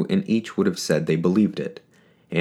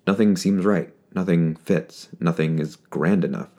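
ordinary delivery, nothing marked

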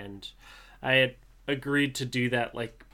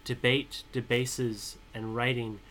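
poem reading. Acted. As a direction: read the poem with weight, letting each word land. Reads his own poem aloud.

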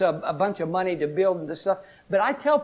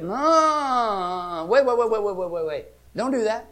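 inner warning voice; 3 semitones higher, slower than usual. Retold or imitated. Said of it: "something in you said".

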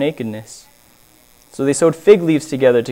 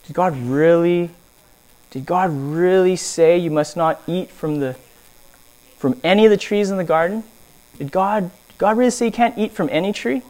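soft, insinuating serpent voice; sly serpent; 2 semitones higher, 6 dB quieter than usual. Retold or imitated. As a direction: coax her quietly, like a scheming snake. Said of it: "It asked the woman".

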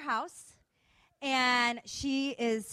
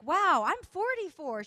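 higher, louder retold surprise; slow, raised wow of surprise; mild amazement; 7 semitones higher, 7 dB louder, slower than usual. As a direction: imitate her amazed reaction, drawn out slowly. Retold amazed reaction to age.

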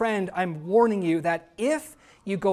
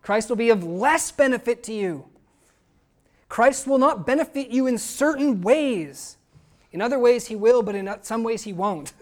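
higher, hedging, ironic voice; mock hedging misquote; 4 semitones higher, 5 dB louder than usual. Preacher mocking a softened verse, ironic hedging. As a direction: play the watered-down version with irony. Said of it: "Is that what he says?".

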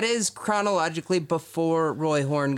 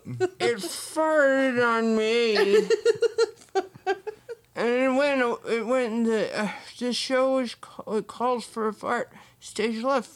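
a lightly put-on German accent, higher; mock German accent; 5 semitones higher than usual. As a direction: play the mauled tiger tamer in a half German accent. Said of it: "I don't know what accent he has".

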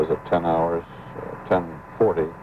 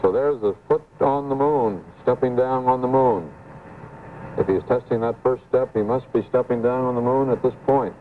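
excited; 5 semitones higher than usual. Real, not acted. Anchor sees first foot on moon.

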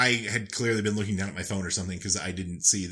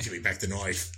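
lightly put-on Australian accent, "knife" as "noife"; 2 semitones lower, 5 dB quieter than usual. Podcaster failing at Southern, sliding into Australian accent. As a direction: slip into an Australian accent by mistake.

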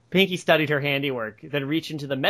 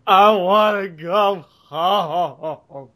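hammed-up wailing sob, very drawn out and loud; mock bawling, stretched out; sobbing; 3 semitones higher, 6 dB louder, much slower than usual. A narrator's reading. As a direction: wail it slowly like a crying child in a cartoon. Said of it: "Dash sobbed".

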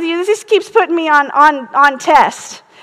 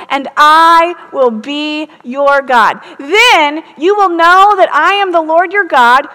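scripture reading. Acted.

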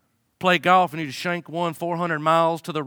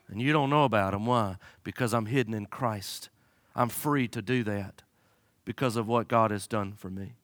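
quiet sincere testimony; 3 semitones lower, 4 dB quieter than usual. Real, not acted.

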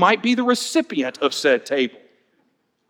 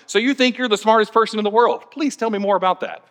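condescending meme sarcasm; 2 semitones higher than usual. Retold or imitated. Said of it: "Willy Wonka ... going".

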